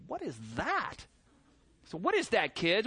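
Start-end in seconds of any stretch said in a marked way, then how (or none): 0.1-1.1 puzzled soft question. Retold or imitated. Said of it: "it's like".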